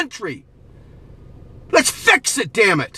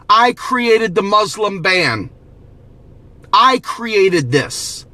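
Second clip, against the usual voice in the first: slow, lower, drawn-out mock confession; 3 semitones lower, slower than usual. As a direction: confess it slowly, like a guilty man at the mirror. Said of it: "Look in the mirror and say".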